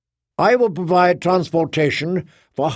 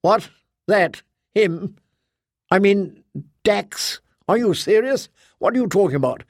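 much higher, incredulous and rising; a Guardian who cannot believe it, pitched up; Kay's voice; 6 semitones higher than usual. A narrator's reading. Kay in disbelief.

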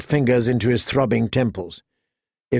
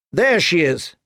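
shouting; 5 semitones higher than usual. A narrator's reading. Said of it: "Joffrey shouted".

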